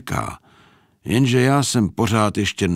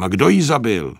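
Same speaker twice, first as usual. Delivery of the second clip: shocked shout; 5 semitones higher, 5 dB louder than usual. Acted. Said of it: "křikl jsem".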